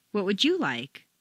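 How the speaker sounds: single out the listener by hitting "you"; stress on YOU. Shown as a demonstration. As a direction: peak on "you". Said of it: "This is to single out an individual".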